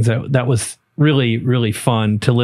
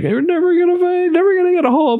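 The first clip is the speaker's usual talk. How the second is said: put-on crying little-boy voice, much higher pitch. Retelling how Corbin reacted as a little boy when the car was lost, imitating Corbin crying as a boy. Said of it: "He starts to cry".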